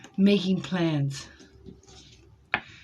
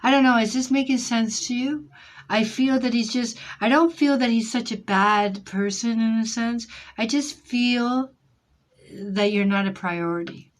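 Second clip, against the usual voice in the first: excited; 4 semitones higher, 5 dB louder than usual. Real, not acted. Reader reassures client, raised voice.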